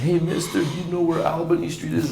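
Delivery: put-on high-pitched little boy, lost; crying child asking. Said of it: "And I'm crying".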